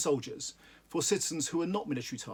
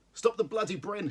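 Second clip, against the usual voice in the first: shouted order; 6 semitones higher than usual. Acted. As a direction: bark it at the giggling men. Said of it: "shouted Dawson".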